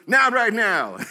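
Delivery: loud, brusque mock refusal; retold shouting. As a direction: imitate a protester shouting someone off. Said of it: "He's just shouting in this thing".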